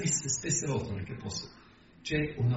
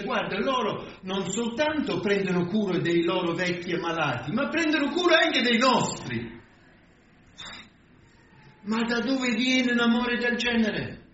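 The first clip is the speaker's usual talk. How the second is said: high, raised voice of baffled disbelief; perplexed, incredulous; 9 semitones higher, 3 dB louder than usual. Acted. Philosopher writing about the puzzling Christians, acted incredulous astonishment. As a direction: exclaim it high, as if it makes no sense. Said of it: "per un certo perplessità scrive e dice".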